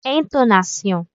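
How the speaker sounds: "intonation" said the French way, an-to-na-SION; French pronunciation. Shown as a demonstration. Teacher giving the French term after the English. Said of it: "ang Fransé".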